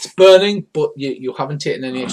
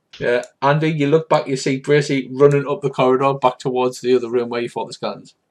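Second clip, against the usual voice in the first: normal talking voice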